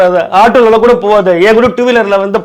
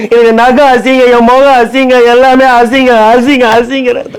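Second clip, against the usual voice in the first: higher, whining wail of self-pity; whiny self-pity; 5 semitones higher than usual. Acted. Husband wailing to his wife that he is ugly, in a whiny wail. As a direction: wail that everything about him is ugly.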